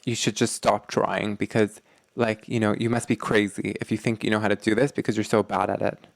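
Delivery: a mild sneer at a partner; contemptuous put-down. Shown as a demonstration. Partner belittled in a mild contemptuous sneer. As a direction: belittle them with a touch of scorn. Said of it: "That is contempt".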